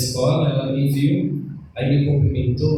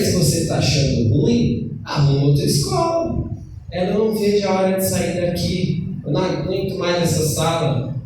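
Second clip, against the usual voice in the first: heated retort; 4 semitones higher than usual. Retold or imitated. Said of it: "mas o sangue subiu".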